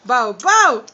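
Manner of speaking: put-on loud, low playful woof for the kids; dog bark. Shown as a demonstration. Teacher imitates dog bark.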